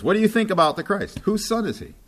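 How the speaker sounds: high, ringing question from Jesus; emphatic Jesus question. Acted. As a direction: lift it high as Jesus challenging them. Preacher voices Jesus' question.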